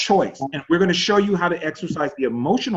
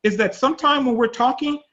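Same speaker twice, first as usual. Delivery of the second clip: imitating the wife; 10 semitones higher than usual. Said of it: "His wife said".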